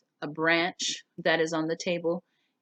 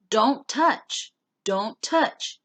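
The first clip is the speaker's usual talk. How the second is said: urgent warning; 8 semitones higher, 6 dB louder, much slower than usual. Acted. Benny urgently stops Naomi.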